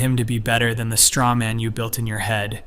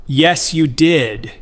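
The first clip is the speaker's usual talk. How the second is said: angry; 4 semitones higher, 6 dB louder, much slower than usual. Acted. Son angrily interrupts his mother.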